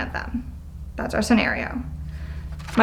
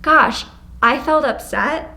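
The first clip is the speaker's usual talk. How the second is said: soft I-statement; 3 semitones higher, slower than usual. Shown as a demonstration. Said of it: "we instead say".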